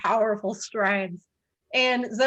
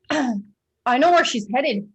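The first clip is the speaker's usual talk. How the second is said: slow, determined hero line; 2 semitones higher, 5 dB louder, slower than usual. Acted. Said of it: "he says".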